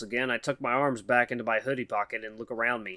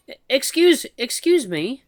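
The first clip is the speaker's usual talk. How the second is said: higher, halting nervous voice of a shy mouse; timid mouse woman; 12 semitones higher, 7 dB louder, slower than usual. Acted. Shy mouse woman nervously calls to the human, halting and high. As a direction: stammer it out like a timid mouse calling for attention.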